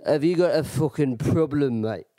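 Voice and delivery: imitated confrontational Irishman; Irish accent. Drunk Irishman challenging the storyteller, confrontational Irish accent. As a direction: pick a fight in an Irish accent. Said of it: "And he goes".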